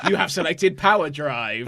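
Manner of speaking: game announcer. Acted.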